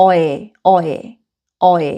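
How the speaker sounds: অয়ে repeated with a rounded oy sound; isolated vowel অয়ে, sounded out clearly; vowel drill. Shown as a demonstration. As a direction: drill the sound অয়ে three times, like a teacher. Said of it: "আমি উচ্চারণটা করে দিচ্ছি".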